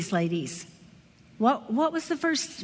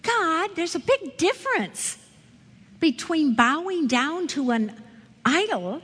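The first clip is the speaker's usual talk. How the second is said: protesting in a higher, emphatic voice; incredulous protest; 4 semitones higher than usual. Retold or imitated. Bible teacher arguing with God over a list of sins, incredulous. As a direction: push back in higher-pitched disbelief.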